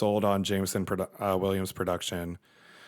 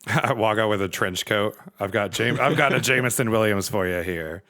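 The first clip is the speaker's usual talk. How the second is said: shady salesman voice; 4 dB louder than usual. Acted. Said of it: "it's shady".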